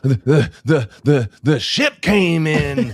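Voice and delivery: high, stammering mock excitement; overexcited. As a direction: gush like a kid spotting a ship. Re-enacting his thrilled ship watching.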